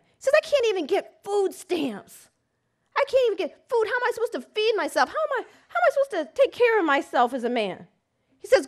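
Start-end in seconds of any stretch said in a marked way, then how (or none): 0.4-7.9 desperate outcry. Retold or imitated. Enraged client, desperate.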